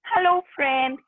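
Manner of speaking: a hint of a friendly swan character; swan greeting a friend. One swan meeting another in the pond, lightly voiced greeting. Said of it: "there is one more swan".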